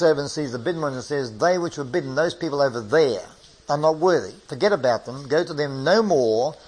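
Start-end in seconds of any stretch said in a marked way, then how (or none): 1.4-6.5 acting the king. King dismissing the bidden ones.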